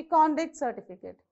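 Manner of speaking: CONduct certificate, weight on CON; "conduct" as a noun, first syllable stressed. Shown as a demonstration. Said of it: "You stress on this".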